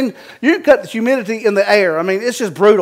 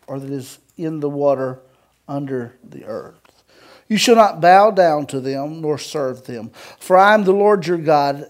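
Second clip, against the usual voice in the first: scripture reading; 3 semitones lower than usual. Acted. Pastor reading the commandment to a standing congregation, solemn scripture reading. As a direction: read it deliberately, pausing between phrases.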